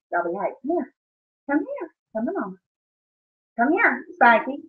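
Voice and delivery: soft coaxing call to the dogs. Real, not acted. Mother softly coaxing her dogs to come to her.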